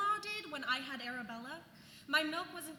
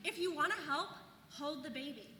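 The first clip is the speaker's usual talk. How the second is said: exasperated rant. Acted. Venting about mother-in-law's advice.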